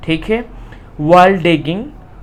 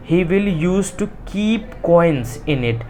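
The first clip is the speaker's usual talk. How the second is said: slow, word-by-word reading; slow reading aloud; much slower than usual. Shown as a demonstration. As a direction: dictate it to the class. Teacher reads textbook line. (धीरे-धीरे पढ़ना)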